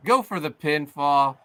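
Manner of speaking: rising excitement on the count; excited pinfall count. Acted. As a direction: build up with each number.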